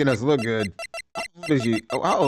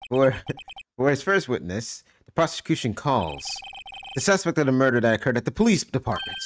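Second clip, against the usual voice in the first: lightly voiced courtroom prosecutor; composed prosecutor. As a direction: read it like a calm, self-assured lawyer. Prosecutor calls witness.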